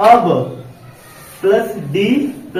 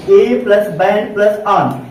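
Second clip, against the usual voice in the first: slow breakdown; slower than usual. Shown as a demonstration. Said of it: "तो कैसे learn करेंगे?".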